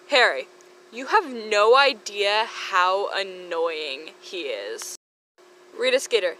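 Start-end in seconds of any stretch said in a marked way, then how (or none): 0.9-5.0 exasperated drag. Acted. Harry exasperated.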